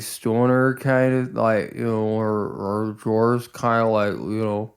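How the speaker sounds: lazy Los Angeles stoner drawl; Los Angeles accent. Shown as a demonstration. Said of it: "Los, Los Angeles".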